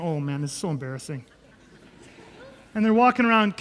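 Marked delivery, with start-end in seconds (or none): 0.0-1.2 low, quiet embarrassed groaning; mortified aside under the breath; eye-rolling embarrassment. Acted. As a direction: mutter it low with an eye-roll. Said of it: "now kinda rolling their eyes going".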